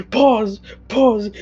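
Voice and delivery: shouting pause. Real, not acted. Player halts the table, laughing.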